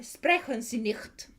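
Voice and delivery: "sprechen Sie nicht" said slowly in German; German words. Shown as a demonstration. Streamer showing chat the German she knows, slowly. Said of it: "all I can say in German".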